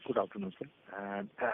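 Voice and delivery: very faint, far from the phone; speaking too far from the mic; barely audible. Real, not acted. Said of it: "Your voice is very low".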